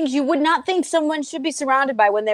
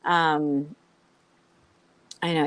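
normal talking voice

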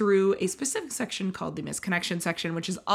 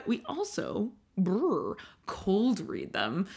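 mock shivering; 4 dB quieter, much slower than usual. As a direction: pretend to shiver, "brr" then slow. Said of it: "Did you like that?".

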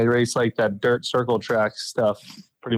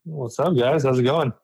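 speakerphone. Real, not acted. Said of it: "You sound so far away".

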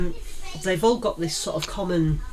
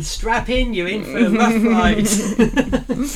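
slow, drawn-out ominous tease; mock dramatic warning; 4 semitones higher, 6 dB louder, much slower than usual. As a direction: lean in like a thriller trailer. Joking warning to listeners.

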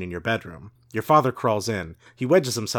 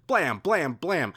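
foley gunshots; 5 semitones higher, much slower than usual. Acted. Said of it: "A lot of Foley in this book".

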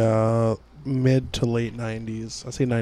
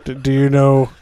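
Santa voice; 5 dB louder than usual. Pretend. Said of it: "It's Santa Claus".

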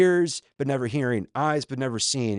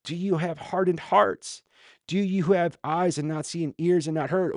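higher, insistent run of questions; staccato questioning; 6 semitones higher than usual. Acted. Jesus challenging disciples' hardened hearts, staccato questioning. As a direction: press each question on them. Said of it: "staccato questioning".

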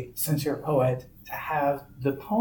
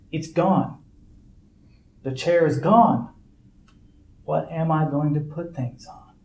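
reading a poem; 3 dB louder than usual. Shown as a demonstration. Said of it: "Okay, here's my poem".

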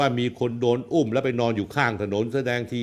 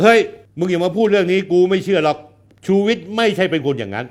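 louder, higher dismissive retort; retold rebuke; 6 semitones higher, 5 dB louder than usual. To the man who brought the rumour, a louder brush-off. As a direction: wave off the rumour with a raised voice. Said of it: "คุณรู้ว่าผมพูดเขายังไง".

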